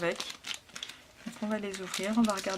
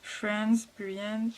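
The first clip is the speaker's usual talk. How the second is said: French-accented English; much slower than usual. Real, not acted. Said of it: "excusez-moi pour mon accent anglais".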